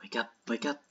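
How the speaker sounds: soft wake-up call. Pretend. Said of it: "Why am I not waking up".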